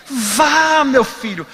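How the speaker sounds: a hint of gentle Chico coaxing him on; kind old medium.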